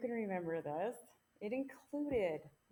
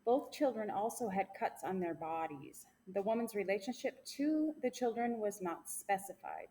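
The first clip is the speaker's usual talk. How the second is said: news read. Acted. Reads news segment.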